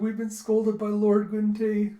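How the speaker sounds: slow, high, loud swooning; awed admirer. Retold or imitated. Commoners scolded by their lord, awed gushing. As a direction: draw it out in mock awe.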